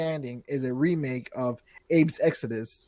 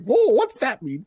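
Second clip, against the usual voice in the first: confused whoa; 7 semitones higher, 4 dB louder, slower than usual. Retold or imitated. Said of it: "and I'm like".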